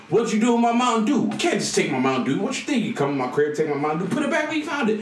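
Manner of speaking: hammed-up outrage over stolen soda; mock angry yelling. Player yelling at doorman Spinelli.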